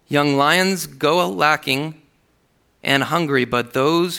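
lifted reading of the psalm; scripture reading. Acted. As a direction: proclaim the verse to the congregation. Reads psalm aloud.

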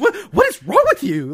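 high-pitched mock alarm; mock-frightened, pitch jumping up; imitated fright. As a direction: act out a startled, freaked-out reaction. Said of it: "it, like, frightens her".

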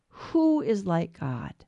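slow, low, measured cry; understated solemn challenge, drawn out slowly; Saint Michael's cry. Retold or imitated. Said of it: "Michael cries out".

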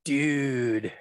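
put-on drawn-out Valley Girl "Dude" with a long U. Shown as a demonstration. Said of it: "best said with a Valley Girl accent".

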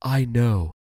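gentle turtle's reply; kindly turtle soothing little ants. A narrator's reading. Turtle comforts the little ants, gentle. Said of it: "the turtle replied gently".

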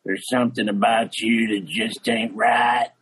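laughing through the coach's grim line; half-laughing imitation of the stern coach; coach's verdict. Coach staring the kid down, mock grim with a laugh. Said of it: "looks at me dead in the eye and he goes".

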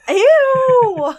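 very high, loud ew; loud disgusted shriek. Real, not acted. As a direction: scream it in disgust. Gross joke reaction.

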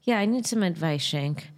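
a hint of a whiny cartoon kid; lightly voiced Cartman, asking for advice. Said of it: "started sounding like Cartman".

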